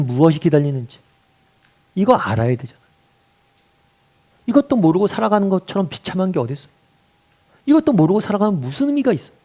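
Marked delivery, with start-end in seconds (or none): 4.5-9.3 tag. Real, not acted. Preaches with rising force.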